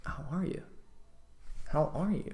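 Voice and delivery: "How are you" softly, high with a dipping swoop on "are"; dip then intonation. Shown as a demonstration. Meeting someone with good eye contact, enchanting dip in intonation. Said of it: "you have the dip and then the intonation".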